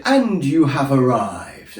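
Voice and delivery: slow, deadpan sat nav announcement. Retold or imitated. To his car, the sat nav announcing arrival, slowly. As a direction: intone it like a robotic sat nav. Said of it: "So it just said".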